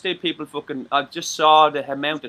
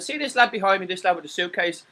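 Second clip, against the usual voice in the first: building to a shouted threat; starts firm, ends yelling at the stalker; retold threat; 5 semitones higher, 5 dB louder than usual. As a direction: threaten him, rising to a yell.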